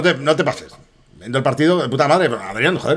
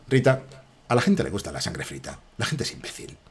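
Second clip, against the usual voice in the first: low, very soft movie-hero imitation; film protagonist's tone; 5 semitones lower, 10 dB quieter than usual. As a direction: confide it to Rita, low and hushed. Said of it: "Escuchad mi, mi tono".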